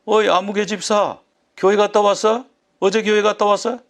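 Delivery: acted boss pressing an underling with questions; workplace boss. Boss grilling a churchgoing employee about yesterday, mildly hectoring. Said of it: "직장의 상사가".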